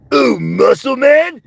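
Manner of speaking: loud cartoon goof voice; Muscle Man. Reading a chat request as Muscle Man. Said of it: "I can do Muscle Man".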